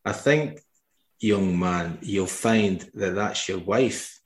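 slow, dry Scottish drawl in a lightly voiced Connery; dry, slow Connery put-down; Sean Connery impression. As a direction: deliver the put-down slowly, deadpan, like Connery. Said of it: "Sean Connery just looks at him and goes".

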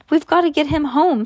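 high, loud urgent call. A narrator's reading. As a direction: push it out fast and urgent. Urgent rescue of Jake.

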